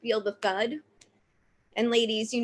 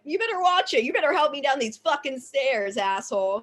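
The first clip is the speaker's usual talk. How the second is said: raised-pitch retold scolding; mock threat; 3 semitones higher than usual. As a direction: warn him off in mock indignation. Acts out scolding the man.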